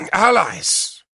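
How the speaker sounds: excited. Acted. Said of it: "he added excitedly".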